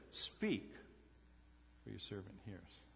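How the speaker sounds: a faint, uncertain murmur of "Speak, for your servant hears"; hushed, hesitant. Shown as a demonstration. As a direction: say it timidly, as a nervous boy who forgets the words. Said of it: "He left out the Lord".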